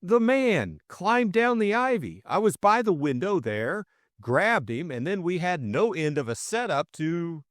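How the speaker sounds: high-pitched, tumbling explanation; excited account. A narrator's reading. Jimmy telling them about the intruder, excitedly.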